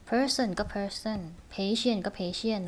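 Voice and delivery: "person" and "patient" carefully articulated; clear pronunciation. Shown as a demonstration. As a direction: pronounce "person" and "patient" distinctly. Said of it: "พยายามออกเสียงให้ชัด". (ออกเสียง "person" กับ "patient" ให้ชัด)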